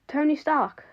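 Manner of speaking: can't believe what he just heard; incredulous. A narrator's reading. Classmate doubting the email came from Tony Stark, incredulous.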